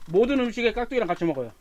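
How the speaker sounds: food in mouth; mumbling between bites; talking while chewing. Real, not acted. Seen 3: eats just before; cheeks bulge, lips work between words.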